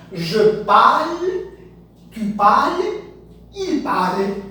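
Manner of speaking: "Je parle, tu parles, il parle" said slowly, every "parle" sounded the same; French pronunciation. Shown as a demonstration. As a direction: drill the three "parle" forms alike for students. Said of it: "mesma pronúncia". (pronúncia francesa lenta, os três "parle" iguais)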